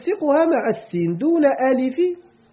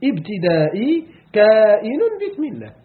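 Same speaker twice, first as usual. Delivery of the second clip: slow dictation. Shown as a demonstration. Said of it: "التقدير".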